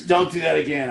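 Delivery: hammed-up stern driver repeating his line; gruff warning. The road rage driver warns him off, mock-gruff. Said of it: "He goes".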